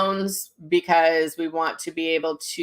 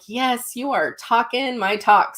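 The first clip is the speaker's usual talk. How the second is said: high-pitched, drawn-out enthusiastic yes; retelling an excited agreement; emphatic agreement; 6 semitones higher, slower than usual. Retold or imitated. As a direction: agree wholeheartedly, slowly and higher. Retold delighted agreement with the woman.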